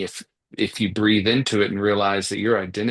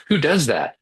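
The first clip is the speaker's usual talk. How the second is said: incredulous; 7 semitones higher, 4 dB louder than usual. Real, not acted. Teasing disbelief about marathons.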